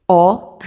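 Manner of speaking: "O" dito alto, soando como U; letra O dita como U. Shown as a demonstration. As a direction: pronuncie "O" com som de U. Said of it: "com som de U". ("O" falado alto com som de U)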